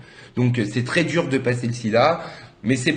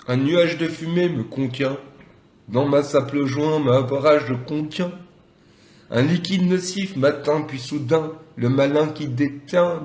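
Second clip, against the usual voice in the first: slow, deliberate spoken verse; poem recitation; slower than usual. Acted. Recites improvised stoned verse. (déclamation lente d'un poème)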